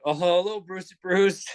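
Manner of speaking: high mock Chinese-accent greeting; copied Chinese accent. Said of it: "I'll speak to them back".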